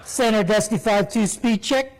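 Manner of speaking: lightly voiced cool Navy pilot; slick Navy pilot. Navy jet pilot showing off on the radio, mildly slick. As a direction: toss it off slick and casual. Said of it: "he talked really slick on the radio".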